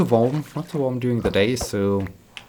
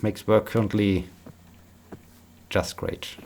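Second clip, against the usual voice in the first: tired, unenthusiastic. Real, not acted. Streamer praising work while still feeling tired, unenthusiastic. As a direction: say it's great with little enthusiasm. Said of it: "don't sound so enthusiastic right now".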